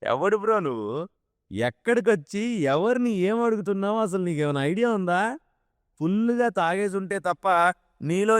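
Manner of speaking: a smug heckler drawing out each taunt; sarcastic. A narrator's reading. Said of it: "అని వెటకారంగా అడిగాడు".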